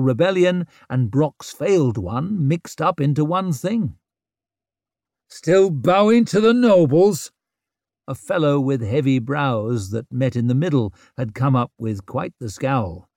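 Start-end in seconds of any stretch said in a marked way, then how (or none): 5.3-7.3 sneering. A narrator's reading. Scowling man taunts.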